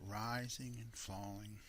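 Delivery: "rising and falling" in an even, swinging beat; "rising and falling" spoken as a measured cadence; steady rhythm. Shown as a demonstration. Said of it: "you hear the rhythm of that".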